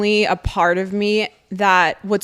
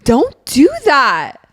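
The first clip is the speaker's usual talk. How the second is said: slow, drawn-out plea; slow pleading; 5 semitones higher, 4 dB louder, much slower than usual. Real, not acted. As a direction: stretch it out, begging. After gasp, pleading.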